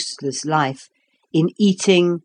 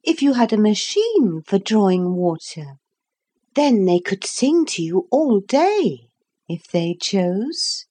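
put-on little girl voice; 2 semitones higher than usual. Lucy's voice.

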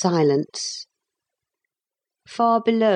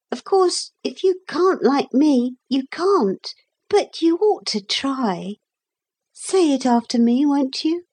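put-on high girl's voice, coaxing kindly; high, gently persuasive girl; kind and persuading; 8 semitones higher than usual. A narrator's reading. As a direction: coax a friend into a truce. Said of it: "Her tone was so kind and persuading".

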